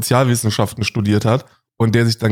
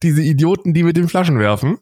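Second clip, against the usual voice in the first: higher, mocking know-it-all tone; mocking preachy voice; 4 semitones higher than usual. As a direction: parody a preachy lecture. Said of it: "Und dann hast du gesagt".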